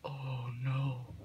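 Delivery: soft unvoiced whisper. Real, not acted. Cringing at the fanfic, whispered oh no.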